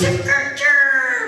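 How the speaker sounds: slow drawn-out cartoon cry; South Park voice. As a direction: call it like a South Park character. South Park catchphrase impression.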